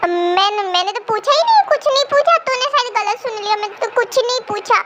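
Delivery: nervous, rushed taking-back; flustered denial. Acted. Jimina backpedals on her question, flustered denial. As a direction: deny it in a panic.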